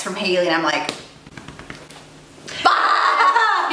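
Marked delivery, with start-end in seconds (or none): 2.5-3.7 high yelped curse of sudden panic; sharp high oh-no exclamation; panicked curse. Retold or imitated. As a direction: blurt it out, caught red-handed. Panicked reaction to sister's text.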